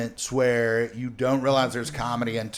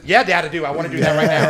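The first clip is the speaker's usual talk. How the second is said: put-on high, loud, eager child; eager kid voice; 3 semitones higher, 7 dB louder, faster than usual. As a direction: answer like a thrilled kid. Son's eager reply voiced.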